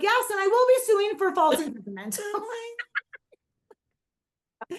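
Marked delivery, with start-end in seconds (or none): 0.0-2.2 mock-formal son. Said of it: "He's like".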